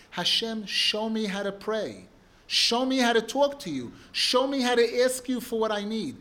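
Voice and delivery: rising into a loud, earnest plea; pleading prayer. Acted. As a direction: beg God to teach you to pray. Voicing a heartfelt prayer request.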